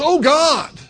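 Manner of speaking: a sudden plea of real panic; desperate yell. Pretend. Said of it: "even the atheist yells".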